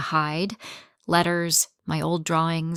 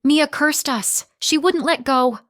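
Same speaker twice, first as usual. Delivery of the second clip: sobbing; 8 semitones higher, 4 dB louder than usual. A narrator's reading. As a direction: sob the words out. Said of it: "Mom's sob".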